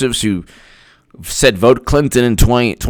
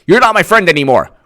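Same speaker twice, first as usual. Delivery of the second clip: mock indignant, higher voice; higher retort; 3 semitones higher, faster than usual. Friend ends friendship, quick high mock huff. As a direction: throw it out quickly, pitched up. Acted quarrel, traded retorts.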